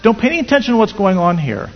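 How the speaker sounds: furious, high and loud shouting at his wife; hammed-up angry husband yelling; infuriated husband. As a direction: snap at her like a husband losing his temper. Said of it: "the husband becomes infuriated".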